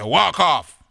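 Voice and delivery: high, loud send-off; dismissive shout. Acted. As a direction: shout the caller away from the door. Sends landlord away.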